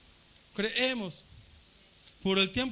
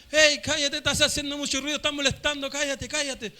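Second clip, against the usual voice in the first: loud, higher scolding shout; crowd yelling; 4 semitones higher, 5 dB louder than usual. Retold or imitated. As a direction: hush him down angrily. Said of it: "los más le gritaban". (la multitud le grita que se calle)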